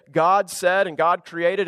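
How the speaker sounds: drawn-out, each word weighed; slow deliberate reading. Shown as a demonstration. Pastor reads the Genesis line slowly to his congregation. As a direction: read it slowly, like a formal refrain. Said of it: "it doesn't just say".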